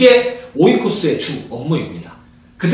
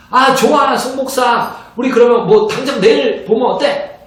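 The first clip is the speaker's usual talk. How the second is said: friendly pastor on phone; 6 semitones higher than usual. Acted. Pastor acts phone call with friend.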